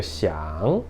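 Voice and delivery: "xiang" dipping low, then climbing; third-tone "xiang". Shown as a demonstration. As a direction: say "xiang" softly with a falling-rising tone. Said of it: "o formato, né, visual mesmo do acento".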